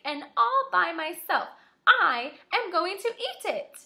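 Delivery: high, loud, proud little red hen; indignant hen. A narrator's reading. Teacher voicing the hen refusing the lazy animals, high and loud. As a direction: declare it proudly, every word yours. Hen's defiant speech read aloud.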